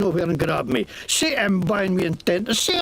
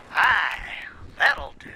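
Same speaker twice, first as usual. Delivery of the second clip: whispered approval; 2 semitones lower, slower than usual. Shown as a demonstration. Satisfied after accent practice.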